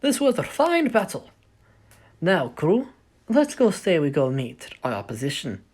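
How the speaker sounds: loud, high, triumphant cheer; rally the crew, shouting proudly. Acted. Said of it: "Casey goes".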